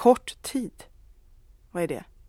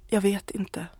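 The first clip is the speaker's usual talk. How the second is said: whispered through held-back tears; tearful whisper; slower than usual. Acted. Wife answering her husband about their future, tearful whisper. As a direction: breathe it out, close to tears. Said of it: "Hon får tårar i ögonen".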